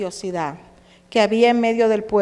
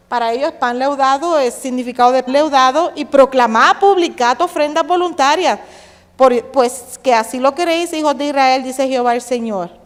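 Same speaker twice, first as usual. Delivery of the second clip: louder mock proclamation; sarcastic reading; 5 dB louder than usual. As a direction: declaim it with irony. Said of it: "Eso es hablar con sarcasmo". (lectura con sarcasmo)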